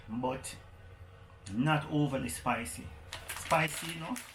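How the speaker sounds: talking while chewing chips; mouth full. Real, not acted. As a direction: speak through a mouthful of chips. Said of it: "I just started eating".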